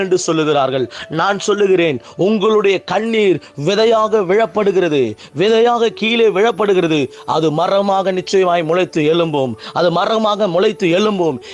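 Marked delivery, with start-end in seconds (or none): 1.2-11.4 emphatic, rolling sermon declaration; fervent preaching. Real, not acted. Preacher declaring that tears become seeds, fervent preaching. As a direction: proclaim it with conviction to a congregation.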